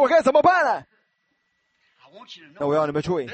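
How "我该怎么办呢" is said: a raised, anxious plea, higher and louder; pleading Moses. Retold or imitated. Preacher voicing Moses begging God for help. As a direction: beg like a cornered man. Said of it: "摩西就开始哀求".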